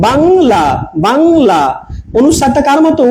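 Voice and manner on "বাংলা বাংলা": "বাংলা" with a clear ng before la; ং sounded as ng. Shown as a demonstration. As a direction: say "বাংলা" carefully, ং as a velar nasal. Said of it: "উঁর মতো উচ্চারণ হয়".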